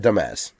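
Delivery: "dumbass" with stress on second syllable. Shown as a demonstration. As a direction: say "dumbass" as duh-MEZ. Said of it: "we've always said dumbass".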